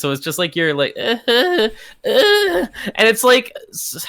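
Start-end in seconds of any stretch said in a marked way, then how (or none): 1.0-1.7 imitating a moan. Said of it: "somewhere between a moan and, like, a soft scream".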